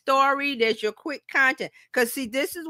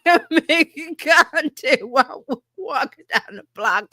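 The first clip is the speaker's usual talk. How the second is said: loud, higher-pitched comeback; mock exasperated reply; 4 semitones higher, 5 dB louder than usual. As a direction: playfully holler it back at your daughter. Acts out reply to annoyed daughter.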